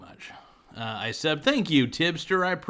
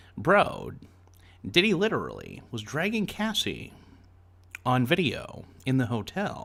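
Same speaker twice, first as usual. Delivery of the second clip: animated put-on voice, pitch swinging up and down. Reading a chat message aloud: Chris Hansen impression. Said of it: "I'm trying to do a Chris Hansen impression".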